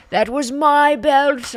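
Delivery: put-on loud, high, slow wail in a would-be Scottish accent; bad Scottish impression. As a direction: bellow it like a robbed Scottish wrestler. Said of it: "trying not to do a Russian accent".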